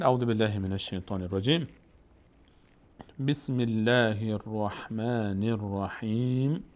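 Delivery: slow measured recitation of the opening formulas; Quran recitation. Shown as a demonstration. Teacher opening the recitation for students, slow and measured. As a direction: recite it unhurried as before reading. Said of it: "ما هم این گونه خواهیم کرد".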